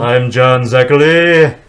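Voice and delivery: slow, lightly voiced horror host; a hint of John Zachary's drawn-out intro; John Zachary impression. Introducing himself as the horror host, lightly voiced. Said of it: "pretty good impression".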